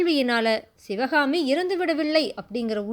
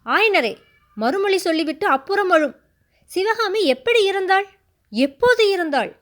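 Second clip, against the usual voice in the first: louder, stern royal command; commanding roar; 6 semitones higher, 5 dB louder than usual. A narrator's reading. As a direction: demand an answer with authority. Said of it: "அதிகார துணியுடைய கடினமான குரல்ல".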